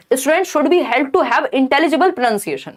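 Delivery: slow, deliberate reading of a test option; slow exam-question reading. Acted. Teacher reading an exam option aloud slowly. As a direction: spell out each word slowly for students.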